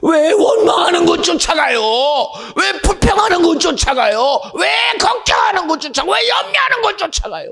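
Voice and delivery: preacher building to a fevered high plea; climbing preaching cry. Real, not acted. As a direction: press them harder with every line. Preaching climax, rising plea.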